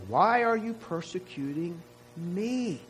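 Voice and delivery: a hint of Jesus, personal question; Jesus asking Saul. Jesus asking Saul why, lightly voiced personal question. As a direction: say it close and personal, near his own voice. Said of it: "He says".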